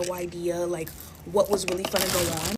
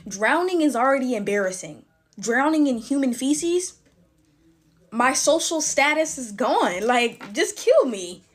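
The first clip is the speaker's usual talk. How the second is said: mock despair; 4 semitones higher, 6 dB louder than usual. Dramatic despair over drowning.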